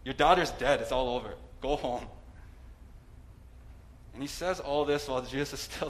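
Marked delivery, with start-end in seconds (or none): 0.0-2.1 louder, blunt delivery of bad news; blunt, tactless messenger. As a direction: bark it out with zero compassion. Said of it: "like, saying".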